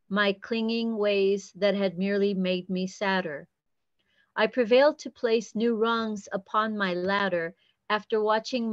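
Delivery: measured, even poem recital; poetry reading. Acted. Poet reading a pantoum to an online group, measured recital. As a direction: read each line as verse, pausing at line ends. Reads own pantoum aloud.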